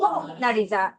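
"모나리자"의 "모"에 강세; 첫음절 강세. Shown as a demonstration. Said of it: "제일 앞에 강세 줘볼 거야". ("모나리자"의 "모"를 세게)

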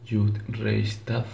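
Yud Reish Tav, slow, one letter name at a time; Aramaic pronunciation. Shown as a demonstration. Narrator shows how the name is pronounced in Aramaic, slow "Yud Reish Tav". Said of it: "En arameo se pronuncia".

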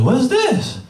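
put-on high-pitched child's question; puzzled kid. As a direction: ask like a little kid facing a mystery box. Nephews puzzled by wrapped gifts.

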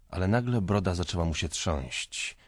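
usual speaking voice

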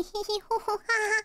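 mock laugh. Mocking fart joke laugh.

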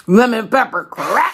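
high, slow sing-song catchphrase; drawn-out catchphrase. Acted. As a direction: stretch it out like a hype slogan. TikTok catchphrase shown off.

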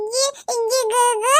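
soft crying babble. Real, not acted. Baby fussing, starting to cry.

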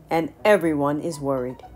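lightly voiced kingly question; a touch of royal authority. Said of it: "King Lion asked".

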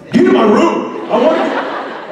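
high, exasperated mock yell at the clerk; mock shout. Tired guest yells at front desk clerk, mock shout.

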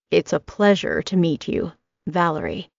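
put-on light Italian accent for the stylist; a hint of an Italian hairdresser's lilt; lightly voiced Italian stylist. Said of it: "he says in a thick Italian accent".

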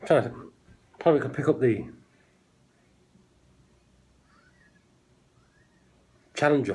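talking while sniffing a drink; speaking into a glass. Real, not acted. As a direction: voice muffled by glass. Seen 0: Glass held up over mouth and nose while he talks, sniffing the beer.

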